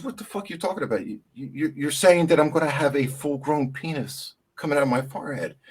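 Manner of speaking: mock horrified patient; horrified disbelief.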